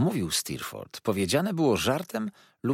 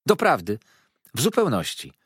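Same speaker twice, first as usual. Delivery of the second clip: mocking repeat; 4 semitones higher, 4 dB louder than usual. Miss Dartle mockingly echoing Mrs Steerforth's words. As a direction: echo the phrase back, raised and pointed. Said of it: "powtórzyła panna Dartle".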